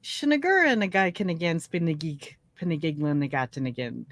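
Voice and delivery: nonsense syllables with nag inserted into each word; Pig Latin. Shown as a demonstration. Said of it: "can you speak some Pig Latin?".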